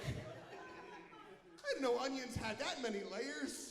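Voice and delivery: slow, lightly voiced ogre musing; a hint of the ogre's drawl; Shrek impression. Comedian closing his Shrek bit, slow lightly voiced ogre. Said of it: "That's my Shrek impression".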